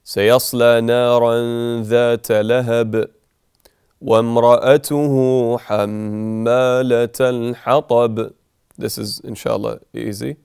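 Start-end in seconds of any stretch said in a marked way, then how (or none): 0.0-8.3 Quran recitation. Shown as a demonstration. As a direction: recite it like a qari in prayer. Recites the verses.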